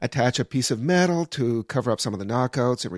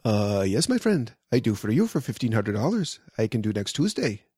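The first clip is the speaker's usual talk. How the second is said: feeble mock Iranian accent; a hint of an Iranian accent; imitated Iranian accent. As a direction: lightly mimic an Iranian electrician's English. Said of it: "my feeble attempt at trying to mimic his accent".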